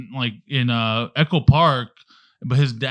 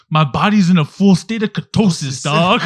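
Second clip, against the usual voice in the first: lightly voiced Cholo accent; a hint of a Cholo accent, a bit louder; 3 semitones higher, 5 dB louder than usual. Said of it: "he has this heavy Cholo accent".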